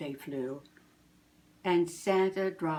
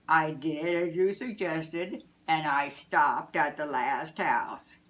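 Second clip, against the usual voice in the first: happy Santa; 3 dB louder than usual. Acted. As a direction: savour the fun.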